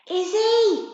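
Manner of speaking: high loud yell; yelling a name. Acted. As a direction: call out into the blizzard. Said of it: "Jody yelled".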